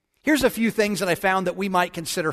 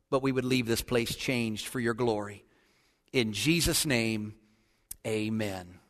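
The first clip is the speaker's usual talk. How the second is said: quiet, earnest prayer, falling at phrase ends; 5 semitones lower, 4 dB quieter than usual. Real, not acted. Preacher asks God to speak through him, earnest prayer. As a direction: pray softly and sincerely to God. Prays aloud over the sermon.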